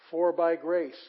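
"by grace" hit loud; emphasized BY GRACE. Shown as a demonstration. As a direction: punch out "For by grace" with firm emphasis. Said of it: "But this is emphasized".

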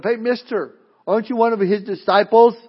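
a hint of a girl piping up to question a stranger; little servant girl. Servant girl challenging Peter in the courtyard, lightly voiced and inquisitive. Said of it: "this little servant girl comes up".

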